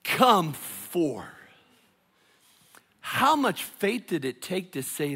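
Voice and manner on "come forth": Lazarus stretched out high and slow, shouted; loud call. Acted. Jesus calling Lazarus from the tomb, a long loud call. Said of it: "Jesus called out in a loud voice".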